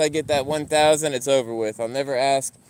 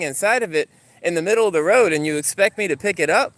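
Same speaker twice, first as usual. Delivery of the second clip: raised pitch, indignant mock tirade; retold exasperated argument; 5 semitones higher than usual. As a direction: replay your protest to an unreasonable neighbour.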